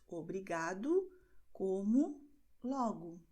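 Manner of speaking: "obrigado, como, logo" ending in oo; final O as U. Shown as a demonstration. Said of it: "tem o som de U". ("obrigado, como, logo" com O final pronunciado como U)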